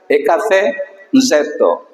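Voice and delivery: eka ce zeto, each part spaced out; repeated slowly. Shown as a demonstration. Teacher repeating the hard word for students, slow. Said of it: "voy a repetirlo".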